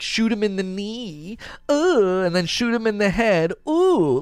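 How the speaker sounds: high, timid mock-frightened voice; mock scared grandma. Gamer mocking cautious play, high scared-grandma voice. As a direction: imitate a timid grandma backing away. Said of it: "act like a scared grandma".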